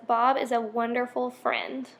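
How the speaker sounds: "wonderful" given a little extra weight; stress on wonderful. Shown as a demonstration. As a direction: lean lightly on "wonderful". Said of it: "it just shows emphasis".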